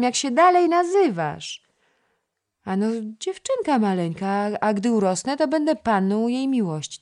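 put-on a chattering little girl coaxing the boy to play; little girl Krysia. (wysoki głosik małej dziewczynki)

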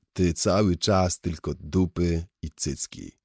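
slow, sighing reproach; westchnienie. Acted. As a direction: sigh it out slowly, wearily. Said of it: "westchnąłem". (powiedziane wolno, z westchnieniem)

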